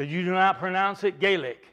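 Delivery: "Gaelic" with a long A in the first syllable; rejected pronunciation. Retold or imitated. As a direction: say "Gaelic" as GAY-lick.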